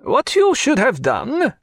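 put-on high, slow French-accented cry. A narrator's reading. Pontécanet scolds the players in a French accent. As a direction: lecture them in a French accent. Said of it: "cried Pontécanet".

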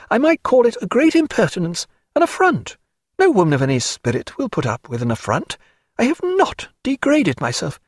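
high-pitched proud woman, wounded; Diana, proud and upset. A narrator's reading. Diana to a friend she is fond of, affronted.

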